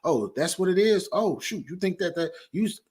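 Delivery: a hint of an easily swayed interviewer; lightly acted passive host. Host meekly accepting whatever his guest claims, lightly acted passivity. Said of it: "can't just sit back and be like".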